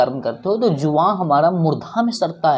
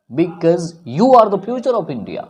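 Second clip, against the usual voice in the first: because you are the future of India, drawn out; earnest slow rallying line; slow and emphatic; much slower than usual. Shown as a demonstration. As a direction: spell out each word to inspire. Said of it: "slow rousing closing line".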